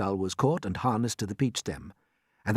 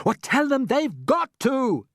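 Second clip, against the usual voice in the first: firm answer; 13 semitones higher, 4 dB louder, slower than usual. Acted. James answering the centipede.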